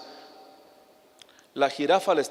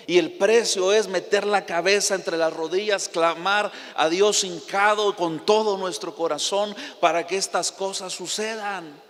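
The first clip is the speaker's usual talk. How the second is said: imitating pastor yelling; 4 semitones higher than usual. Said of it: "Él estaba gritando".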